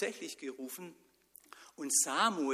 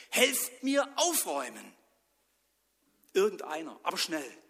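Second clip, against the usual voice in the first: calling out; 4 semitones higher, 6 dB louder than usual. Acted. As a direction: call the friends in. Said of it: "rief er". (Mann ruft laut aus dem Fenster nach Freunden)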